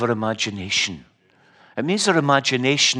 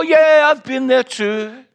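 high, slow mock nonchalance; mock casual brag; 12 semitones higher, 7 dB louder than usual. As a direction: pretend you've been everywhere too. Pretending to belong in green room.

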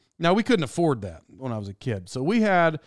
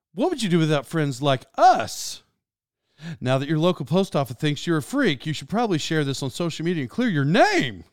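lightly voiced airline announcer, last word lifted; airplane guy. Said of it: "like the airplane guy".

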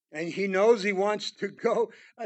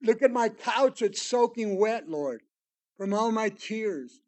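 crying out to God; 3 semitones higher, 5 dB louder than usual. Retold or imitated. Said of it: "David's crying out in the Psalms".

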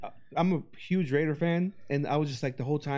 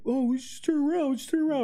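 higher, anxious mock plea; worried; 9 semitones higher, faster than usual. Paranoid Tony urging the group to turn back: mock worried. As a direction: imitate a panicking friend, voice pitched way up. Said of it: "All fucking worried".

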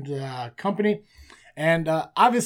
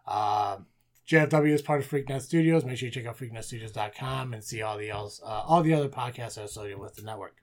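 rushed ad read without a breath; all in one breath. Real, not acted. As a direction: race through it on one breath. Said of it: "Did you do that all in one breath?".

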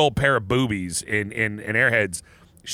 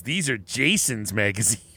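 slow, lightly voiced deadpan line; drawn out, a hint of Lon Friend; quoting Lon Friend; 3 semitones lower than usual. Podcaster quotes the producer, slow mild impression. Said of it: "he's the guy that goes".

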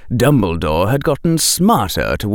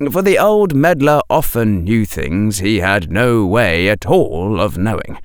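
plain reading voice

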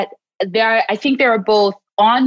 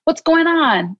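gentle self-check; 3 semitones higher than usual. Shown as a demonstration. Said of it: "then I can look at".

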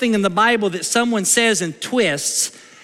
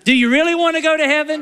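faster, insistent asking; pressing question; 5 semitones higher, faster than usual. Acted. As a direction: push him, quicker and eager. Pastor presses the volunteer.

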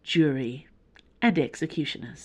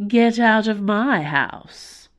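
mocking sweet echo, slow and louder; sweetly; 4 semitones higher, 5 dB louder, slower than usual. A narrator's reading. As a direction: say it back sweetly, teasing. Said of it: "he replied sweetly".

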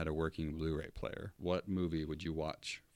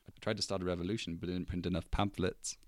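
put-on quick, lightly done New Zealand accent; Korg. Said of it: "but same accent".

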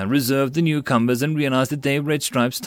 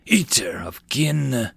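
growled accusation; slower than usual. Acted. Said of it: "The Orkin growled".

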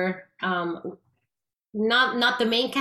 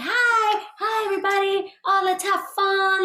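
high bright imitation of a friendly director, much higher and louder; cheerful greeting; 11 semitones higher, 4 dB louder than usual. Retelling Spielberg welcoming everyone, high and cheerful. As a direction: play the welcoming director calling hi to the room.

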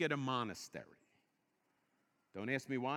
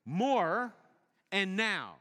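"More" and "now" punched loud; stress on More and now; 2 semitones higher, 6 dB louder, much slower than usual. Shown as a demonstration. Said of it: "two words that are mottos".

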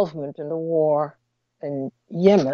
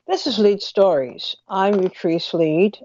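mouth barely opening. Real, not acted. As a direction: mouth barely opening, words a little funny. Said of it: "if I sound a little funny".

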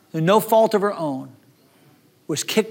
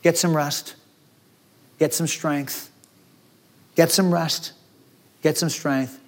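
tender God. Acted. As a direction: soothe them like a worn-out child. God gently speaking to the weary.

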